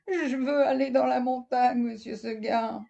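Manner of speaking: high, quick little goat reply. Acted. Goat answers Monsieur Seguin, high and sweet.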